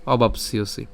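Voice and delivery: slow, measured chant of the verse, each word drawn out; slow Sanskrit recitation. Shown as a demonstration. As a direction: recite the shloka slowly and solemnly, word by word. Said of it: "প্রথম থেকে এই শ্লোকটি উচ্চারণ করি".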